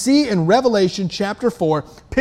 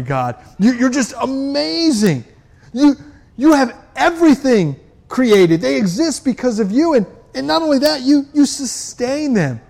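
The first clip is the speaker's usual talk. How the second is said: overwhelmed adoration. Acted. Elders overwhelmed in God's presence, tearful awed adoration. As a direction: gush with wonder at standing before God. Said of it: "these twenty-four elders going".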